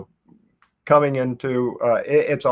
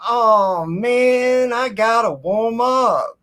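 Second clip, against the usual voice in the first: high brushing-off voice; dismissive ballplayer; 10 semitones higher, 4 dB louder, slower than usual. Retold or imitated. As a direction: shrug him off, higher up. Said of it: "he just looked at me and went".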